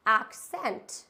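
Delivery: accent said carefully in English; model word. Shown as a demonstration. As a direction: say accent with stress on the first syllable.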